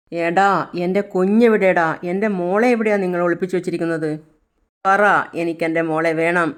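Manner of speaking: a frantic mother screaming for her daughter; desperate angry shout. Acted. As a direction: shout at the kidnapper, begging and furious. Mother demands her kidnapped child.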